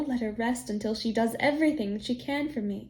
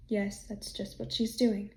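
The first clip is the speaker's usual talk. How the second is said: gloomy; 3 semitones lower, 5 dB quieter than usual. Acted. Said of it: "said the farmer gloomily".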